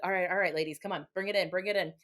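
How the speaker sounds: hushed coach huddle; halftime pep speech. Retold or imitated. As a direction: gather them in like a coach. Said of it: "I'll be like".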